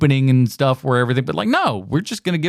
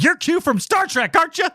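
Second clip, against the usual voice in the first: fanboy gush; 14 semitones higher than usual. Retold or imitated. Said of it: "just going".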